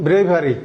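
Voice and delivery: "ব্রেভারি" with a long "ei" in the first syllable; bravery pronunciation shown. Shown as a demonstration. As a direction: say "ব্রেভারি" as BREI-va-ri. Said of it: "এর উচ্চারণ কি হতে পারে". ("ব্রেভারি", "ব্রেই" দিয়ে শুরু)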